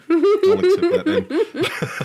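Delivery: high, loud mock offended acceptance; mock huffy. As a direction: play at being offended, squeaky.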